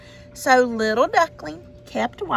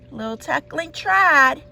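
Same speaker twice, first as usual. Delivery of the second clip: usual speaking voice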